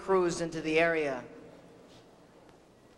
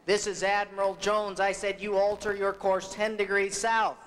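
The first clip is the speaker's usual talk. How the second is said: mildly indignant retold cry, a bit raised; insistent mock-admiral order, slightly higher; upset admiral; 4 semitones higher than usual. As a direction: call back as an affronted admiral, without full shouting. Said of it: "made the admiral very upset, and he cried back".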